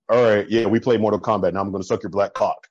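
lightly voiced crude gamer bro; a hint of a blunt come-on guy; mocking local guys. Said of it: "the way you said that just made me cringe".

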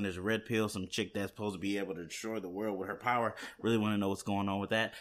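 fast excited rush; talking fast. Real, not acted. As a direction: rattle it off quickly. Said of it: "Sorry I'm talking so fast".

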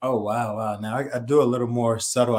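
ordinary delivery

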